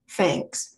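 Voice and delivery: Thanks with an F, fanks; Cockney fanks. Shown as a demonstration. Teacher showing Cockney thanks, fanks. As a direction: say Thanks starting with an F. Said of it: "gonna become F sounds".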